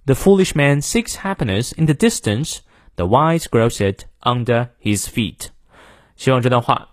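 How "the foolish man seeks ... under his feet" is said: British model reading with R-less "under"; British accent, measured teacher's demo; British English. Shown as a demonstration. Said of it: "再来一遍".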